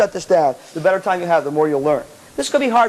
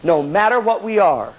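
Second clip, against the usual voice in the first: poem recital; 3 semitones lower than usual. Real, not acted. Recites a poem to band students.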